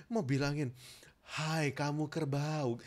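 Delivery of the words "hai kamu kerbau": slow, soft, breath-calmed name-calling; long calm breath, gentle words; calm insult. Shown as a demonstration. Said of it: "nggak bisa emosi".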